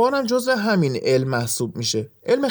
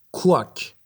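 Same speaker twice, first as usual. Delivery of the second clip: duck quack; slower than usual. Shown as a demonstration. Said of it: "صدای اردک".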